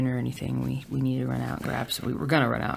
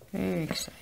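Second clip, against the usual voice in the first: excited repeat; 5 semitones higher, 3 dB quieter than usual. Real, not acted.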